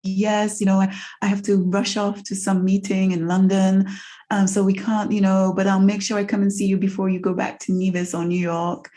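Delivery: lightly voiced posh father. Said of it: "He's like".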